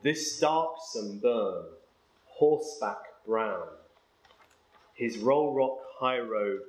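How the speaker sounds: slow, measured poetry reading; poem recital. Acted. Lecturer reading Hopkins's poem to the class, slow and measured. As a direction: let each line ring out slowly.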